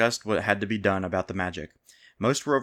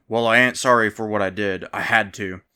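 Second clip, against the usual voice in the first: defiant bandit shouting louder at the king; yelled; 5 dB louder than usual. A narrator's reading. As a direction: throw it back at the king, unrepentant. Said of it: "The hardiest bandit stood up and yelled".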